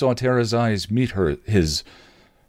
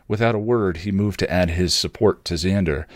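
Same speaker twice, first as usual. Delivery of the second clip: ordinary delivery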